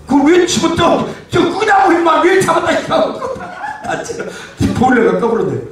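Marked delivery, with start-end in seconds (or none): 0.1-3.2 high, agitated telling-off; exasperated scolding. Real, not acted. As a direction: demand why the crew meddled. Scolding crew over a technical mishap. (짜증 내며 다그치기)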